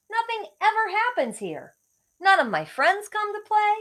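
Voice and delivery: put-on high whining boy voice; whiny bored boy. Shepherd boy complaining to himself, high and whiny.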